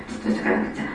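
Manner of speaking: breathy whisper, じっとしとかなくちゃ said almost without voice; a child whispering じっとしとかなくちゃ to himself; whispered inner speech. Shown as a demonstration. Child holding still, whispering じっとしとかなくちゃ to himself. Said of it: "頭の中で使うのが内言語".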